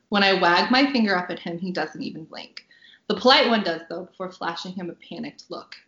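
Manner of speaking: measured audiobook-style reading; story narration. A narrator's reading. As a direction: read the scene aloud as a storyteller. Reads her novel aloud.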